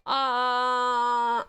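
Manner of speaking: long, drawn-out puzzled "uh". Acted. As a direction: stretch out a baffled uh. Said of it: "accents that make people go".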